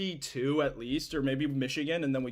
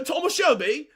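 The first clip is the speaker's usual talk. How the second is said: high, loud hammed-up British shout; mock British accent; 11 semitones higher, 4 dB louder than usual. Streamer acting a Peaky Blinders scene, mock British yell. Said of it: "I'm sick to British accent".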